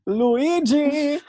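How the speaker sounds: high, loud call. Acted. Fernando calls Luigi up the stairs, high and loud. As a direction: sing out the name up the stairs.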